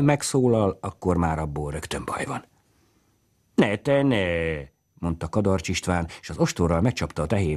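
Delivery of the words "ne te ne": higher, firm no to the cow; scolding the cow. A narrator's reading. Carter warning the cow off his fodder, a firm scold. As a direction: stop the cow sharply.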